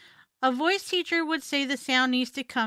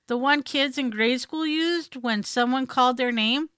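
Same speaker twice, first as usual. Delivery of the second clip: ordinary delivery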